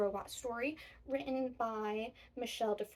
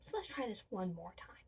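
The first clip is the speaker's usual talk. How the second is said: whisper; 3 semitones lower, 4 dB quieter than usual. Acted. Whispered aside to children.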